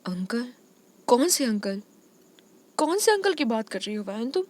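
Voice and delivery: high, broken, crying voice; can barely get the name out; terrified stammer. Acted. Girl stammers in fear.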